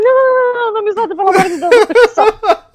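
high, frantic begging with a crying edge and nervous laughter; terrified plea to the jump operator, half laughing; panicked pleading. Retold or imitated. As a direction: beg them not to let go, voice cracking high. Retold panic at bungee edge.

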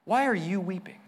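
gentle, genuinely asking; sincere question. Shown as a demonstration. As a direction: ask because you truly want the answer. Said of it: "really does seek an answer".

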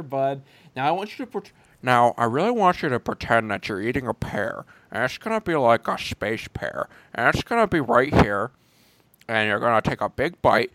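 lightly voiced weary director giving notes; a hint of a bored director coaxing his actress through a scene; George Lucas impression. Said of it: "That's my George Lucas impression".

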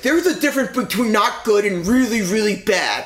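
a hint of a lecturing interviewer, stressing really; hammed-up scolding interviewer; lightly voiced stern TV interviewer; mock stern interviewer. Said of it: "he's like".

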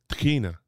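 Tahina with the T and H smushed together; Hebrew pronunciation. Shown as a demonstration. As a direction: Tahina said with a throaty H. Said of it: "are kinda smushed together".

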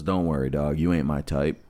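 low, calm retold reassurance. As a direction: let him down calmly, voice dropped. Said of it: "He stays pretty calm".

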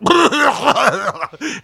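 loud spluttering imitation noise; exaggerated open-mouthed hacking; mock cough. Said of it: "They're the ones that are like".

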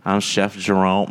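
lightly voiced greeting like a famous pop singer's; a hint of a pop singer in the hello; Chef Jerome impression. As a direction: demonstrate how the chef introduces himself. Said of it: "Because that's how he talks".

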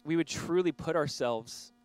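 earnest prayer. Real, not acted. Pastor praying before the sermon, earnest prayer voice. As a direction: pray it sincerely over the room.

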